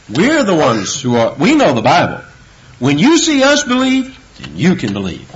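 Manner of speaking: a smug, lightly mocked snob's voice; mocking Pharisees. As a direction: imitate the arrogant Pharisees with a touch of scorn. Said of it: "know what they're saying?".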